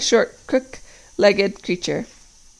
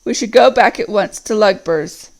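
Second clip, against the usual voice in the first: evil voice; 4 dB louder than usual. Acted. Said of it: "said the evil voice".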